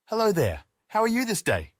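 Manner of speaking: high, lightly voiced broken-English greeting; a hint of an Indian accent, eager and sweet. Jasmine greets Julius in a light Indian accent with broken English. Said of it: "Jasmine says in her broken English".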